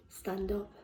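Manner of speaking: hushed repeat of the refrain; soft echo. Acted. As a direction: let the words fade like an echo. Poem refrain, echoed softly.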